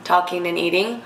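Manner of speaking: talking while chewing; words round a mouthful of food; mouth full. Real, not acted. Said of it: "talking with my mouth full a lot of this video".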